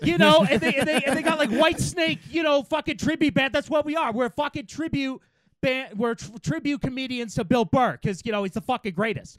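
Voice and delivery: over-the-top Midwest bro impression; Midwest accent. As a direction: ham up a shitty Midwest accent. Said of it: "very good I'm from the Midwest shitty accent".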